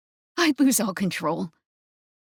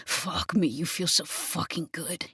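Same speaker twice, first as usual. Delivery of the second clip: gritted teeth; 4 dB quieter than usual. Acted. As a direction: force it out through clenched teeth. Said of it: "he grits out".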